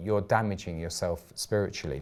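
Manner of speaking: usual speaking voice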